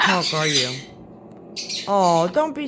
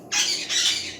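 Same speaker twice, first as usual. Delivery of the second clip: playful drawn-in gasp; 3 dB quieter than usual. Real, not acted. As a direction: gasp for a pet. Playing peekaboo with parrot.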